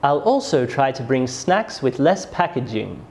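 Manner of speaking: "packaging" falling at the end; falling statement intonation. Shown as a demonstration. Teacher demonstrates a statement, falling tone on "packaging". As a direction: let the voice drop on "packaging". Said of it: "My voice goes down at the end".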